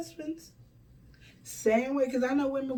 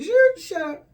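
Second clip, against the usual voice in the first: higher, louder mock command to shut up; imitated stern shout; 10 semitones higher, 7 dB louder, slower than usual. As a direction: bark it like a stern voice cutting her off. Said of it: "the guy had to tell me".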